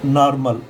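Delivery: नॉर्मल with an open AA, "naar-mal"; नॉर्मल with AA in place of O; open AA vowel. Shown as a demonstration. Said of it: "ये वाला आ वाला sound लेंगे".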